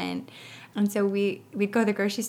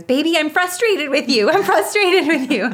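mock toddler yell, much higher and louder; imitating a yell; 10 semitones higher, 11 dB louder than usual. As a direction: shout it like a three-year-old venting at his sister. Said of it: "you just heard him yelling".

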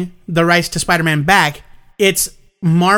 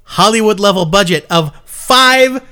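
mocking quote; 4 semitones higher than usual.

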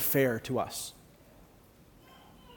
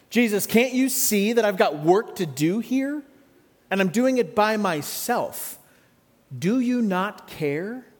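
a hint of an exasperated Martha, pitched up; voicing Martha's complaint; 4 semitones higher than usual. Preacher voicing Martha, mildly exasperated. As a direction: complain to Jesus as overworked Martha.

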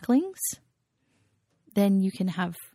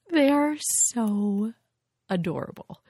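gushing; 4 semitones higher, slower than usual. Real, not acted. Gushing over baby ducks.

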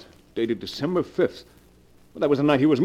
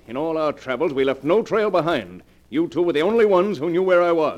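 louder, rising anger at the accused; angry accusation; 3 semitones higher, 6 dB louder than usual. Acted. Gerald accusing his wife and Jason, angry and loud. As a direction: pin the blame on them hard.

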